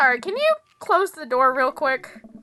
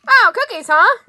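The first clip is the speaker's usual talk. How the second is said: surprised; 7 semitones higher, 8 dB louder than usual. Acted. Character surprised by cookies.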